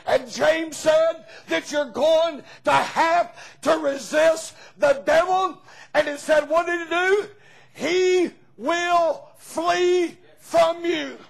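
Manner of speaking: rising preacher's cry, slowed on the verse; preaching at full force. Real, not acted. Preacher calling the church to resist the devil, rising. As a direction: drive the verse home from the pulpit.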